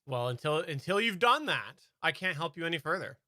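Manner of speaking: scripted tech support agent, lightly voiced; Dell customer service voice. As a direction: read it like a level one help desk script. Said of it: "This is my Dell customer service ex-, ex-, impression".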